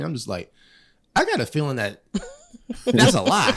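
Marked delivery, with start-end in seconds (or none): 1.2-3.6 high laugh through the words; laughing disbelief. Real, not acted. Man doubting the age warnings, laughing. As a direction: chuckle it out, not buying it.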